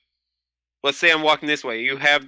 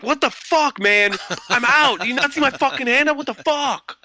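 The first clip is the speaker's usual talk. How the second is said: retold screaming; 11 semitones higher than usual. Player yelling at the man who shot him, angry high yell. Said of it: "I'm just, like, screaming at him".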